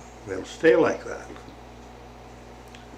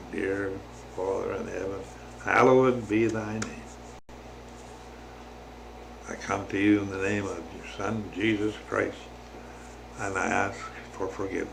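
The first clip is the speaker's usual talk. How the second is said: softly spoken, reverent prayer; model prayer; 2 semitones lower, 6 dB quieter than usual. Shown as a demonstration. Showing listeners how to pray to the Father, softly prayerful. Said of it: "putting your hands together and saying".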